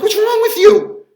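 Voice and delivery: high, loud and slow alarmed question. Retold or imitated. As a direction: ask in shocked disbelief. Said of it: "And I'm like".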